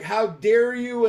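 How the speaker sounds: high, slow mock outrage; retold indignation. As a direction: draw it out like an offended fan. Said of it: "I got a lot of threats".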